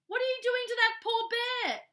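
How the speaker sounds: high, loud indignant scold. Acted. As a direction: tell off your husband. Mrs Brown scolding husband.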